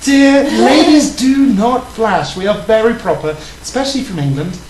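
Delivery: prim proper lady voice; posh English lady. Pretend. The speaker plays a proper English lady.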